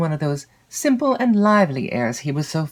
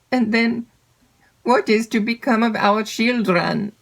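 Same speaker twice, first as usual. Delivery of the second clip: pleading shepherd's wife; 5 semitones higher than usual. A narrator's reading. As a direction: plead her case, anxious and higher. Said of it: "added the shepherd's wife".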